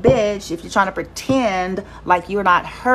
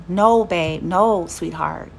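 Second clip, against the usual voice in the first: tender mother; 3 semitones lower, slower than usual. Retold or imitated. Mother comforting her daughter.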